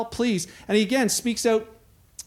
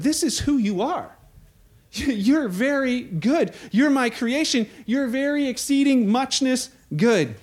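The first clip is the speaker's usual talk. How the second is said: tender father; 2 semitones higher than usual. Acted. God speaking over children.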